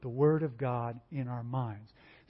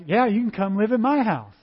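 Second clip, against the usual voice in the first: mock tearful sympathy; 7 semitones higher, 6 dB louder than usual. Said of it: "You start crying with her".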